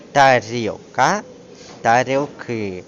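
ТАРІЛКА then ТАРІЛКИ, slowly, the plural stressed on its last syllable; stress shift to the ending. Shown as a demonstration. Teacher showing how the plural moves the stress, stress on endings. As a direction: stretch out ТАРІЛКИ with the beat on final КИ. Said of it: "наголос проходить у закінчення".

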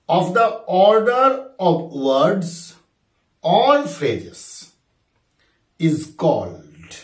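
drawn-out second reading; slow dictation repeated. Shown as a demonstration. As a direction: read the question again slowly for the class. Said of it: "কোশ্চেনটা আরেকবার বলি".

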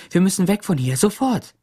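high, loud urgent plea; urgent alarm. A narrator's reading. Teacher urging Sam to flee the mob, alarmed.

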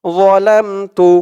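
slow যালামতু, mouth full on the first sound. Shown as a demonstration. Teacher showing the full-mouthed sound slowly. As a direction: round and heavy যালামতু. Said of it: "মুখটা একটু ভরপুর হয়ে যাবে".

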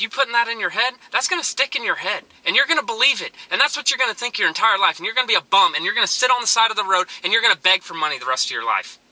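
retold impassioned lecture. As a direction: push hard to shake him out of it. Lecturing the young homeless man.

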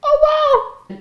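high laughing shrug. Retold or imitated. Not caring if Bob dies, laughing. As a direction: toss it off through a laugh. Joke about letting Bob die.

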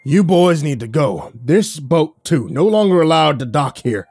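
loud, slow, furious order to leave; angry yelling. Acted. Old dockmaster yelling at the boys to leave, angry shout. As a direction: bark them off the dock like an enraged old man. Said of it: "he was yelling".

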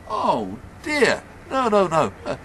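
put-on high, loud, fussing old man; concerned old man. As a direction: brush off the apology in a high old voice. Old man reassures the stranger.

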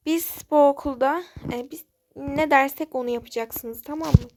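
put-on bully asserting control over the new girls; bossy bully. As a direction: lay down the rules like you own the place. Bully lays down the law.

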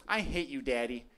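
put-on soft, hurt little kid; small child voice. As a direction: mutter it like a sulking five-year-old. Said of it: "look up at me and be like".

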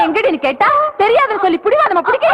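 put-on yelling at a stubborn girl; furious shout. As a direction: shout her down.

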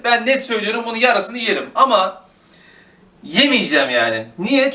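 high-pitched eager chatter; excited. Real, not acted. Vlogger telling viewers she is saving the bread, high and eager. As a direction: bubble over about the bread. Excited about tomorrow's breakfast.

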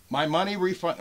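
imitated all-caps yelling. Seller reading a buyer's all-caps demand, imitated yelling. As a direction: read it as a mock shout. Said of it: "all in caps again".

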